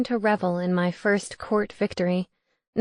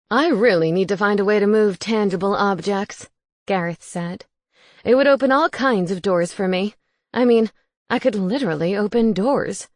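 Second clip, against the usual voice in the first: ghost roommate voice; 5 dB louder than usual. Acted. Gareth again.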